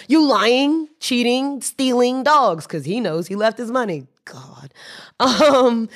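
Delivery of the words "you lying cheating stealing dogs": mock drunk yell, higher, mild loudness; imitating a drunk's insults, stretched out and slowed; retold screaming. Drunk man screaming at the shopkeepers, imitated, higher. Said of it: "He was just screaming at them".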